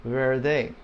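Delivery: "Verde" with a weak, th-like D; soft D. Shown as a demonstration. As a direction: keep the D in "Verde" light. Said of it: "The D is not strong".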